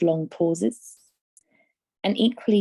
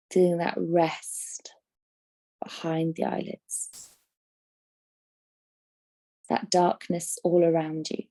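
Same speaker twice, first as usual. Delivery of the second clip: guided meditation. Acted. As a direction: guide them gently into rest, phrase by unhurried phrase. Leads a yoga nidra.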